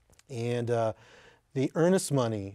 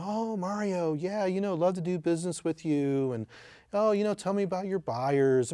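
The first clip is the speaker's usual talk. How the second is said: imitating a friendly guy; 5 semitones higher than usual. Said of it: "just the nicest guy".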